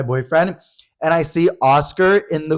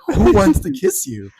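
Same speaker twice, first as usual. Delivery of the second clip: higher, slow, mock-exasperated question; incredulous questioning; 6 semitones higher, slower than usual. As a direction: press a friend for the answer, lightly acted. Retold pressing of drunk friend.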